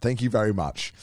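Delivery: tongue-in-cheek, facetious, sarcastic tone. Reading a sponsor script and thanking another speaker: facetious tone. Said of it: "You couldn't have said that more facetiously".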